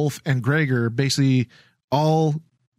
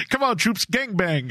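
higher mock commander call; 5 semitones higher than usual. Trooper commander voice played.

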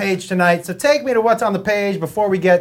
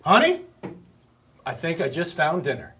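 car voice; 6 semitones lower, 4 dB quieter than usual. Pretend. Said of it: "I'll be the car too".

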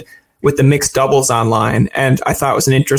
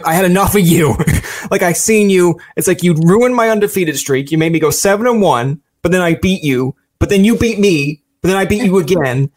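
higher, playful needling of a rival; mock rivalry taunt; 4 semitones higher than usual. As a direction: play up a friendly grudge.

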